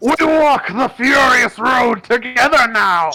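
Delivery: very high, swooping, shouted rallying battle cry. Playing a raging brawler using Zealous Presence on allies: character shouting a battle cry. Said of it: "he'll shout".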